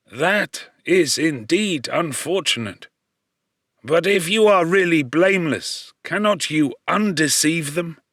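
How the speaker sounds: lightly voiced old man soothing a stranger; gentle fatherly reassurance; reassuring old man. A narrator's reading.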